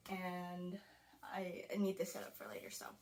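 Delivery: whispering. Real, not acted. Aside to camera while filming.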